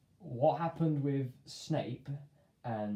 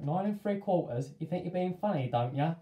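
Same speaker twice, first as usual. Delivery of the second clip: sarcastic ticket man; 5 semitones higher, 4 dB louder than usual. Retold or imitated. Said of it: "And he's like".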